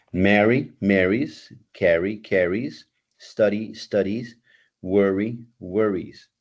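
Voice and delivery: marry then marries, with a z-sound ending; teacher drilling -ies verb forms; teaching -ies endings. Shown as a demonstration. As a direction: model each pair for the class. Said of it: "yo quito la Y y agrego I E S".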